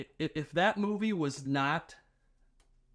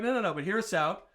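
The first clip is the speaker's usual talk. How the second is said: mock pleading; 3 semitones higher, faster than usual. Acting out studio pleading its pitch.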